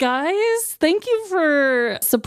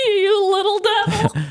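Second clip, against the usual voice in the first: higher, laughing tease of a friend; playful tease; 10 semitones higher, 4 dB louder than usual. Real, not acted. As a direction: call him a little devil with a laugh. Teasing friend after joke.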